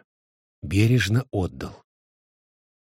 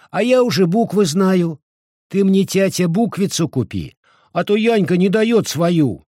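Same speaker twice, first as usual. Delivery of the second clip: put-on much higher, louder child's voice; eager little boy; 9 semitones higher, 4 dB louder than usual. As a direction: beg father for a primer like a small boy. Маленький сын просит отца. (высокий, громкий голосок мальчика)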